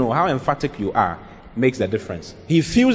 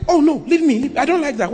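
a touch of firm refusal; 13 semitones higher than usual. Shown as a demonstration. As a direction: say no with a bit more weight. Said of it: "But you can say".

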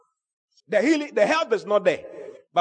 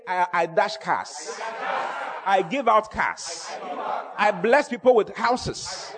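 bold declaration; slower than usual. Shown as a demonstration.

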